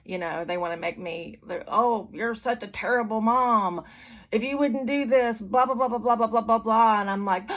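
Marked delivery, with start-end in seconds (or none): 1.7-7.0 mock whiny guilt trip, rising in pitch and volume; high, loud mocking child's complaint; kids' emotional blackmail. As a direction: imitate kids laying on the guilt. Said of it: "what I call emotional blackmail".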